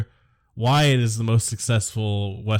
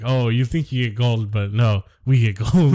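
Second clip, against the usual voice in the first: mock mine boss; 4 dB louder than usual. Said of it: "the mine guy's like".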